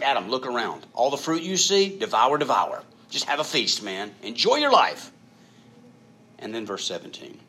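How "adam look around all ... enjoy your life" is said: God urging a feast. Acted. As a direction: invite him to gorge, peaking on the last words. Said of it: "He's like".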